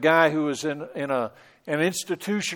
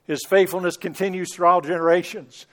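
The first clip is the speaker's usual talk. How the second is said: scripture declared with force, stress on all; recited scripture. Retold or imitated. Preacher quoting the psalm in a strong ringing voice. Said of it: "that last verse of the passage".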